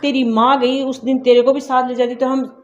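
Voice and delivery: loud, harsh scolding of an unwanted daughter; angry scolding. Acted. Mother angrily scolds married daughter calling for shagun money, loud scolding. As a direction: tell her off hard, fed up and bitter.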